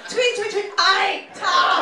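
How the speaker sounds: high chirps into a loud Scottish sign-off; birdlike Scottish accent. Retold or imitated. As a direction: chirp like a rough Scottish bird. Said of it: "you sound like birds to me".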